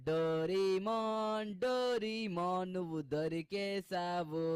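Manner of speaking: very slow, drawn-out triumphant call. Acted. Seeker announcing Doraemon is found, slow drawn call. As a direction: sing out the name as you find him.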